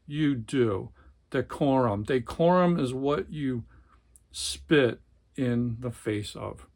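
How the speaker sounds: dramatic read-aloud of a tense family scene; novel reading. A narrator's reading. Book reviewer reading a novel passage, dramatic narration. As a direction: read it like a gripping literary passage.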